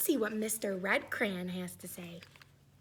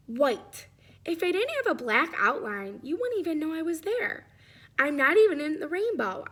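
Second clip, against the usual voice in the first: louder, plaintive crayon voice; ignored white crayon; 3 semitones higher, 4 dB louder than usual. Acted. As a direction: ask why anyone colors you.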